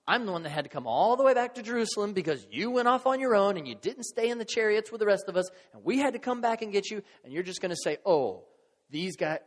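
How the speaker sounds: mock a fed-up mother's rising tirade; indignant mother. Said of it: "she was on the outside going".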